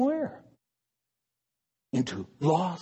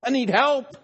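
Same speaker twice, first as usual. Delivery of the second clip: humble confession; 5 semitones higher, 4 dB louder than usual. Pretend. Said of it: "One who's humble and says".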